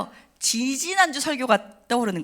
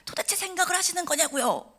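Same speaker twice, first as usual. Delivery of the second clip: retold yell at God; 8 semitones higher, 3 dB quieter than usual. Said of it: "막 더 소리를 막 지르면서".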